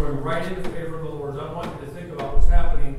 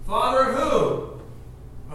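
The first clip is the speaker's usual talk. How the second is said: 1 mocking neighbor; 5 semitones higher, much slower than usual.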